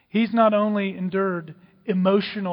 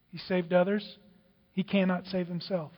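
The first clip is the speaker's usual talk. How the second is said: subdued quote; 8 dB quieter than usual. Acted. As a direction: quote the mockers quietly, letting it sink. Mockers' words, quoted softly.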